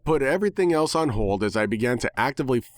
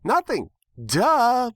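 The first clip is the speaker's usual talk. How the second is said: much higher, bright pony squeak; cheerful squeak; 14 semitones higher, 4 dB louder, much slower than usual. Acted. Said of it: "Pinkie squeaked cheerfully".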